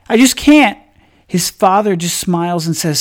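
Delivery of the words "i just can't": put-on embarrassed boy. A narrator's reading.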